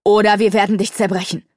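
loud, menacing demon threat. A narrator's reading. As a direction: threaten to break him.

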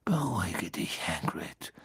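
softly stern command; hushed but curt; brusque. A narrator's reading. Headmaster calming the gamekeeper, brusquely. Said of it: "sagte Dumbledore barsch".

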